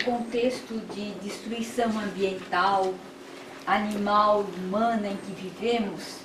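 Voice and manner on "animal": ordinary talk, nothing marked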